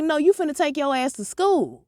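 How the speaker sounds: high sharp mom voice; mom challenging. Retold or imitated. Mom stopping her daughter going to bed, high and sharp. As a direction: raise it way up, a suspicious mother. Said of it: "She was like".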